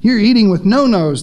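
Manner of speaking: mildly acted horrified objection; horrified outcry. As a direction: object like a scandalized critic, lightly played. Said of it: "The Pharisees were horrified ... they cried".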